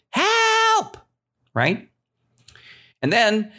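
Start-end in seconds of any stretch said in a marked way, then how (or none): 0.1-1.0 very high, drawn-out squealed shout; long shrieked call in falsetto; mock cry for help. Shepherd boy shouts a trick alarm, long high cry. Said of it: "He shouted".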